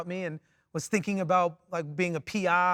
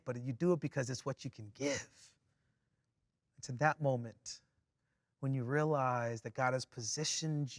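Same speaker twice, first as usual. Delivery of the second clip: soft, lower voice with long pauses; reflective preaching; 4 semitones lower, 8 dB quieter than usual. Real, not acted. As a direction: let the point settle gently, quietly.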